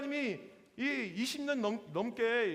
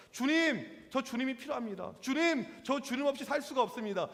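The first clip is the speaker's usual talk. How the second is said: higher-pitched cry out to the Lord; humble plea; 4 semitones higher than usual. Acted. An oppressed believer seeking the Lord, humble plea. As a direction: plead your need for God earnestly. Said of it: "겸손하게 주님을 찾는 모습에서 나온 말입니다".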